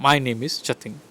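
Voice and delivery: "Jatin" falling to a close; plain statement, dropping at "Jatin"; falling intonation. Shown as a demonstration. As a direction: let the pitch step down on "Jatin". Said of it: "So falling".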